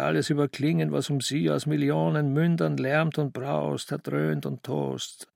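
mildly fervent, even reciting in long phrases; fervent recitation. Acted. Young man reading a litany to himself, fervently. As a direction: recite it like a prayer. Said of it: "las mit einer Inbrunst, wie man Gebete spricht".

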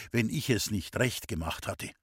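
usual speaking voice

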